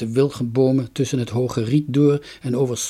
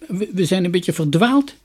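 tearful, higher and louder; mild sobbing; 6 semitones higher, 4 dB louder than usual. A narrator's reading. Lost girl tells her brother, half sobbing. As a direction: voice of a lost child close to tears. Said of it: "snikte Dunja".

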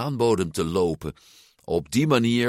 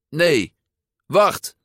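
urgent cry; 9 semitones higher, 6 dB louder than usual. A narrator's reading. Boy crying out in panic.

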